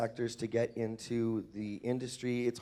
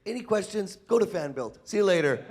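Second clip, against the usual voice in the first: mock self-quote; 5 semitones higher, 4 dB louder than usual. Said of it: "I'm like".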